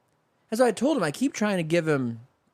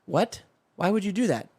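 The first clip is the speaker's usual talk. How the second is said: a higher, puzzled wife's voice; baffled wife; 6 semitones higher than usual. Retold or imitated. Wife baffled by her husband's order, higher and puzzled. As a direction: ask it like a bewildered wife. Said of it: "A wife says to her husband".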